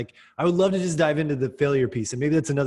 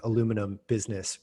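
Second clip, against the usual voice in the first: "aluminum" in an American accent, four syllables, stress on LU; 3 semitones lower than usual. Shown as a demonstration. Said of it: "my poor American accent".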